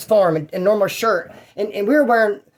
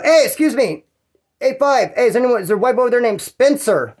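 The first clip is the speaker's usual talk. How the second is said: calling out; 5 semitones higher than usual. Retold or imitated. Guard calls out down cellblock.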